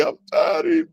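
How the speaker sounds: high mock yell; hammed-up high line; mock shout. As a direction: yell it like an angry actor. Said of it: "let 'em say".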